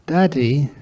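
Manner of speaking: small, whispered call of Daddy; hushed child tugging at his father; child's whisper. Acted. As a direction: whisper it like a shy little boy. Child calls tired father.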